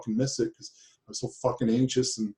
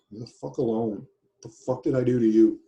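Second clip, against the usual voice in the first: loud, indignant outburst; angry challenge; 4 dB louder than usual. Real, not acted. Client confronting the man who yells, angry challenge. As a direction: push it out louder, as a real accusation.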